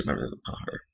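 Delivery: a hushed little aside; whispered to herself. Real, not acted. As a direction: whisper it as a side note. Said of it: "I'm gonna call her Anastasia".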